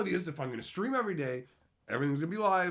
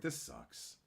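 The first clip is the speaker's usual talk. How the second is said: This sucks much lower and softer; deep grumble; 10 dB quieter than usual. Retold or imitated. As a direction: growl it low and flat.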